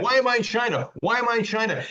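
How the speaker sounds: patient waking after surgery, screaming in high mock panic; retold frantic scream. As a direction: replay the confused panic, pitch way up. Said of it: "I kept screaming".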